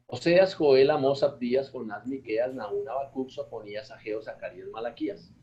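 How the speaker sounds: brisk run through the names; quick recitation. Shown as a demonstration. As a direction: rattle the list off fast. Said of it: "Eso es rapidito".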